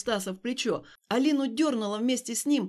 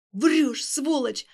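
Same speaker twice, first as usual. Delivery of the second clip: louder, higher angry yell; furious shout; 3 semitones higher, 6 dB louder, much slower than usual. Acted. Alina swinging at Stas again, shouting in fury. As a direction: spit the insult at him.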